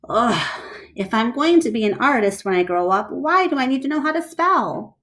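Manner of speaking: put-on whiny, exasperated kid; groaning complaint. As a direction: complain like a fed-up child. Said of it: "Julia groans".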